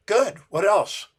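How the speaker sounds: eager encouragement. Retold or imitated. Coach praising and pressing for more.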